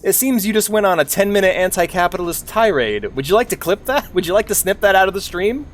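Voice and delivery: a helpful cartoon helper offering a clip; Mister Snip Snip. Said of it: "little character called Mister Snip Snip".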